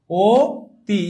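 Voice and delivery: "ও তি" split in two, opening on a clear closed o; teacher sounding out "ও", a pause, then "তি"; pronunciation demo. Shown as a demonstration. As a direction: say "ও তি" syllable by syllable with a rounded o. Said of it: "এইভাবে কি আমি উচ্চারণ করি".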